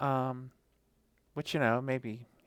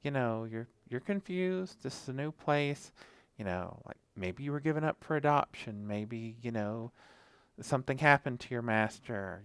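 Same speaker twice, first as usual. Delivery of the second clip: pleading dog pack. Retold or imitated. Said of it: "all the other dogs are like".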